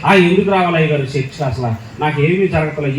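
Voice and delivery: lightly voiced sulky lady who stopped praying; preacher imitating a woman who gave up church; complaining churchgoer woman. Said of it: "ఓసారి అన్నాడు".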